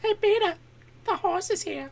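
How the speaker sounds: very high falsetto; cartoon impression. Cartoon character announcing a horse to Peter, falsetto voice.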